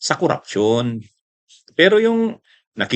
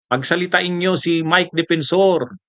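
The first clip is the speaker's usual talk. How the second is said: higher, slow mocking plea; mock pleading Respicio; 5 semitones higher than usual. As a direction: mimic a man begging to be let speak. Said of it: "Sabi niya". (pagmamakaawang panggagaya)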